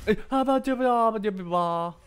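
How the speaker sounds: high, loud goofy babble; playful cartoon babble; silly nonsense voice. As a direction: taunt in gibberish.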